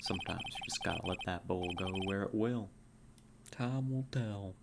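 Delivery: put-on a light, understated cowboy accent. Marshall advising his partner, in a light cowboy accent. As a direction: lean into a friendly Western cowboy accent. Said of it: "your cowboy accent".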